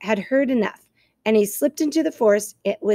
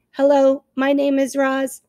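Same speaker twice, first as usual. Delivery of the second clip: slow, measured robot greeting; owl imitating a robot; 4 semitones higher, 3 dB louder, slower than usual. Owl mimics the robot's greeting, slow mechanical voice. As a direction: spell each word out mechanically. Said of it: "said Swooper".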